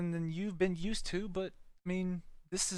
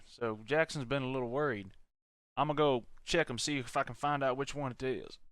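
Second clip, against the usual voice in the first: put-on southern accent; 5 dB louder than usual. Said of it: "you were using a little bit of a southern accent".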